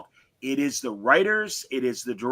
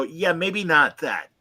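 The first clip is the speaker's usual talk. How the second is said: gentle hint; slower than usual. Pretend. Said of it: "somebody in the room needs to stand up and go".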